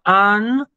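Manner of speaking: an-ge-los split syllable by syllable; separating syllables. Shown as a demonstration. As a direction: break "an-ge-los" into its three syllables. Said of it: "Si yo lo separo en sílabas". (separando "an-ge-los" sílaba por sílaba)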